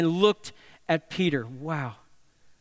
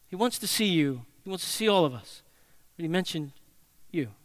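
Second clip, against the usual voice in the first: tender emphasis. Retold or imitated. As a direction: lean in gently on him by name. Softening to tender emphasis on Peter.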